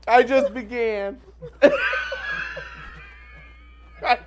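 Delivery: losing it mid-sentence; laughing. Real, not acted. Laughing off the midlife label to her co-host.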